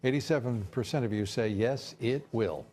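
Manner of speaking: emphatic opening, deliberate anchor cadence; news read. Acted. Anchor reading poll results to viewers, news read.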